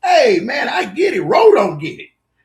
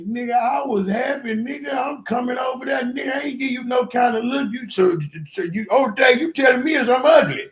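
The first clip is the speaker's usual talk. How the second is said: angry shout; 8 semitones higher, 4 dB louder than usual. Retold or imitated. Ro voiced angrily on call.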